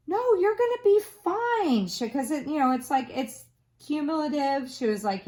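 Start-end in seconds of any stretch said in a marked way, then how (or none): 0.1-1.9 much higher, lighter reassuring teacher voice; imitating the professor. Professor reassuring a tearful student, high and light. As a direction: play the kind professor brushing off worry.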